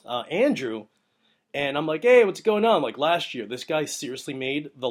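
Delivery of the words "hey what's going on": called out, much higher and louder; a cheerful shouted hello; loud greeting. Retold or imitated. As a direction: hail him from across the green. Greeting Andrew on the course.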